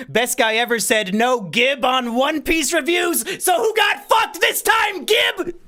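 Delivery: building from a jeer to a high, loud taunting yell; gloating shout at Gib; mocking shout. Taunting Gib over chat.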